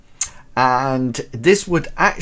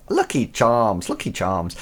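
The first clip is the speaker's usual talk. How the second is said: lightly put-on Irish accent; playful touch of Irish accent. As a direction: say it in a mild mock Irish accent. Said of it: "That's my Irish accent".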